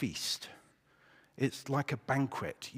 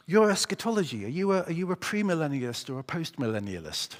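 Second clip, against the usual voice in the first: higher, eager voice for the keen questioner; 6 semitones higher, 4 dB louder than usual. Acted. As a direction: ask it like an excited new friend. Joke, first guy's nerdy question.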